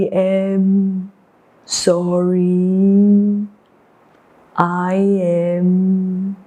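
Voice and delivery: very slow, low turtle voice; low, ponderous apology; sorry turtle. Acted. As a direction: drag out each word with long pauses. Turtle refuses wolf in story.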